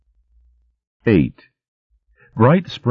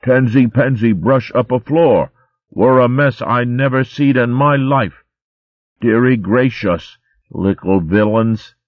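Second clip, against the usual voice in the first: child's high mock scolding, slowing at the end; mocking Sister Cicely; 7 semitones higher than usual. Arvin mimicking Sister Cicely for Tansy, high mock scold. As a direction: ape the nurse's fussing. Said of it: "began imitating Sister Cicely".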